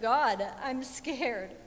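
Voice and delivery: slow, pleading cry to God; a touch of fear, slow and loud; mildly fearful plea, drawn out; scared prayer. Retold or imitated. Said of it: "saying things like".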